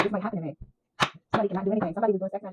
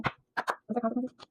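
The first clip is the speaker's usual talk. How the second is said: slow, higher, otherworldly voice asking it; voicing the spirit's question; 4 semitones higher, 4 dB quieter, much slower than usual. Reader channels spirits asking the consequences, slow and eerie. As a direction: draw it out like a voice from beyond. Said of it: "is what I heard".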